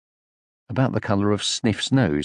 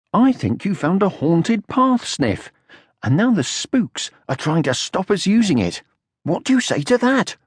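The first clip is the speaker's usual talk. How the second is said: put-on higher, amazed young troll; Moomin Troll voice; 8 semitones higher than usual. A narrator's reading. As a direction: marvel at it, voice raised. Moomin Troll teasing Sniff.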